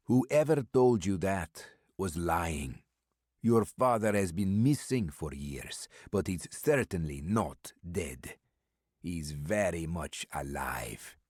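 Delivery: put-on slow and deliberate Eastern European accent, confident; mysterious stranger's accented voice. Stranger telling Maddox his father is alive, slow and accented. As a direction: lean in and reveal the secret slowly.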